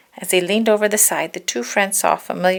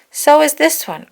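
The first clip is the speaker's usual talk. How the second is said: higher, louder tiger; Tigger voice; 8 semitones higher, 7 dB louder than usual. Acted. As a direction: declare it plainly disappointed. Tigger checks the pot.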